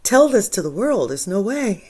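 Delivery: high, loud incredulous protest to God; mock despairing plea to God; pleading with God. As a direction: throw up your hands, there's no way. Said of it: "I'm like".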